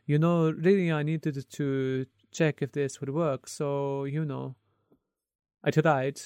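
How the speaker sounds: light imitation of an Italian accent; playful put-on Italian accent. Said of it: "Italian accent there".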